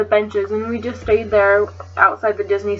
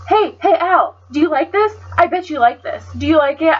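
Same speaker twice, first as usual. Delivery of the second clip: taunting imitation; 4 semitones higher than usual. Sam taunting her Christian friend Al, mock teasing. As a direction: needle him like a playground bully. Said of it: "And she says".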